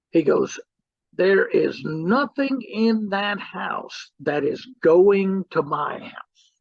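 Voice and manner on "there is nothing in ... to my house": slow and deliberate, every word firm; stern, slow insistence. Retold or imitated. Brother refusing to take anything home, slow and stern. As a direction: lay down the law, slowly.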